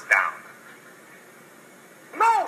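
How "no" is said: squeaky pig. Acted. Pig refuses the wolf.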